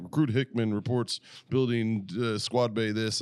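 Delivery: slow, measured recruit's report. Acted. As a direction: recite your post like a recruit. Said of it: "fire watch started reporting his post".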